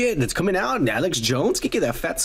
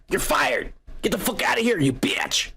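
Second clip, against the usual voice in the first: angry sister; 5 semitones higher than usual. Retold or imitated. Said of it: "the sister says".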